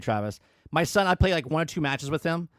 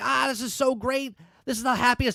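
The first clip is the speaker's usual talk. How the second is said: put-on high, thrilled, delighted kid voice; 8 semitones higher than usual. Retelling a child's joy at a new game, imitating excited son. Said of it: "he was so excited".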